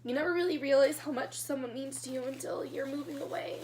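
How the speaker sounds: fighting tears. Real, not acted. Woman missing her grandma as she moves away, tearful. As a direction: push the words out while holding back tears. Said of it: "I don't wanna be crying right now".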